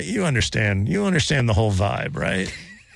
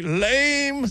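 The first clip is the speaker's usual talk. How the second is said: dismissive; 11 semitones higher than usual. Retold or imitated. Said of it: "everybody's like".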